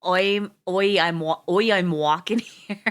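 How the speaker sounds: loud jokey "I'm walking here" shout; hammed-up street yell at someone in the way; mock New York yell. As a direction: bark it like a cabbie in traffic.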